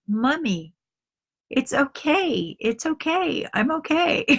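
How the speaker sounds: put-on child's voice. Burned child comforting crying mother.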